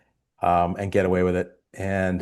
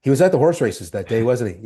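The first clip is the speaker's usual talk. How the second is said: recovered line; 2 semitones higher, 4 dB louder than usual. Retold or imitated. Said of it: "I go".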